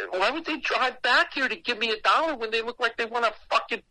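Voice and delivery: rising, high-pitched bewilderment; incredulous. Retold or imitated. Storyteller puzzling over an angry woman bringing a dollar, incredulous.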